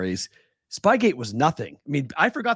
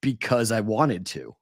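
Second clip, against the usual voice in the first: slow, understated imitated retort; lightly voiced unbothered commissioner, drawn out; Roger Goodell; 3 semitones lower, slower than usual. Commissioner answering the frantic media, slow mock-simple reply. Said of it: "And Goodell's just like".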